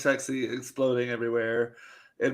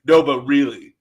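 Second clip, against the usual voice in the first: laughing quote; 9 dB louder than usual. Retold or imitated. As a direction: crack up mid-quote. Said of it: "And he's like".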